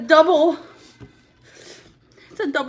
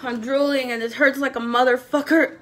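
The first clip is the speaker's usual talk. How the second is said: teary; 6 semitones lower, 8 dB quieter than usual. Real, not acted. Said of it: "my tears are there".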